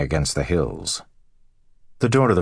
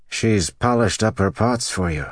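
lightly voiced farmer, raised pitch; dazed husband relaying news; 5 semitones higher than usual. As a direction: pass on a puzzling message to your wife. Voices husband relaying neighbour's message.

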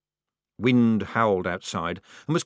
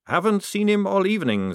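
higher, earnest recruit reply; Maledict, raised voice; 11 semitones higher, 4 dB louder than usual. Acted. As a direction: answer the sarge promptly. Maledict answers sergeant.

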